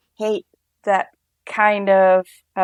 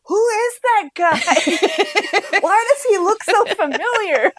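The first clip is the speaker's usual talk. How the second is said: much higher, slow, baffled voice with a laugh breaking in; puzzled; 12 semitones higher, slower than usual. Retold or imitated. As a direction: drag it out like you can't place the face. Confused viewer quote, laughing.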